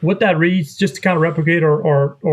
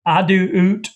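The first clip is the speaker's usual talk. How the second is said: oot sound; 3 semitones higher than usual. Shown as a demonstration. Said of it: "That's just kinda how my".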